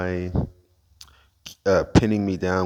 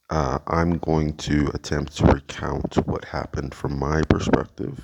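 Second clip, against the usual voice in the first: lisping from a bitten tongue; slight lisp; 2 semitones lower than usual. Real, not acted. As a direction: speak carefully with a sore tongue and a slight lisp. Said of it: "I might have a bit of a lisp".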